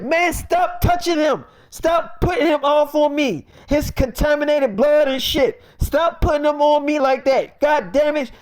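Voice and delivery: high, heated retold complaint; acting out a disgusted friend's rant; agitated protest. Acted complaint about being touched.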